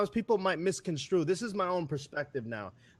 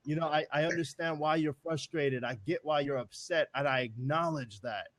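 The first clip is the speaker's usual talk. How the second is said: reassuring. Retold or imitated. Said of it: "I said".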